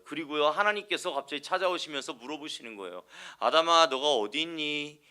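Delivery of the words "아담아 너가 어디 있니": slow, stern and menacing call to Adam; scary intonation. Shown as a demonstration. God to Adam, a slow, menacing call. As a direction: make the question sound frightening, slow and a bit louder. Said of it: "꼭 이런 억양으로 말하면 그럼 되게 무섭게 들리죠".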